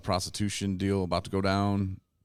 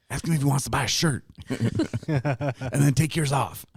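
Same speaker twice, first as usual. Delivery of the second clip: laughing direction; 7 semitones higher than usual. Acted. Directing a joke scene, laughing.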